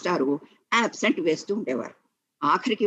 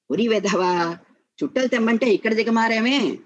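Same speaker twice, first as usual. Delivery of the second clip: father's lightly acted telling-off, a bit louder and higher; mild scolding; 5 semitones higher, 5 dB louder than usual. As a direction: scold the boy with a touch of annoyance. Father scolds son skipping errand.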